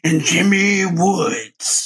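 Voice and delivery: drawn-out mock announcer call; shocked announcer. Announcer introducing a missing contestant, shocked and drawn out. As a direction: stretch the name out like a stunned announcer. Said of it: "the announcer's really shocked".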